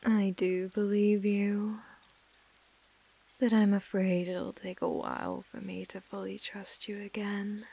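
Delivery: possessive mistress, whispering and murmuring; whispered asmr role play. Acted. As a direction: coo and whisper to a captive. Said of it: "my A S M R roleplay".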